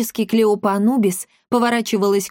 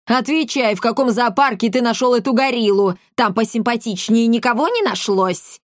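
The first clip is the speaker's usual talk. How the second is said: heated interrogation, pitch raised; indignant mother's scolding; angry demand; 3 semitones higher than usual. Acted. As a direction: demand an answer from your son. Mother shakes and interrogates son.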